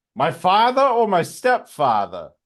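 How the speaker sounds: put-on Maine fisherman accent, swooping, high. Reading a chosen quote aloud, like a lobster fisherman from Maine. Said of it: "I'm going to read it like a like a lobster fisherman from Maine".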